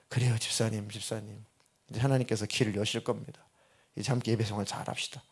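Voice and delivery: low, softened pastoral comfort; retold gentle reassurance. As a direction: calmly reassure a troubled congregant. Pastor reassures caller in retold dialogue.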